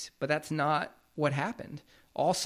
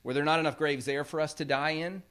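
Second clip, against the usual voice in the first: sarcastic. Retold or imitated. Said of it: "which are sarcastic words".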